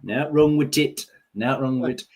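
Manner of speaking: broad Yorkshire, words run together; thick Yorkshire, swallowing the small words; Yorkshire dialect. Retold or imitated. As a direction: say it like a Yorkshire meme. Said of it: "the latest Yorkshire meme going round".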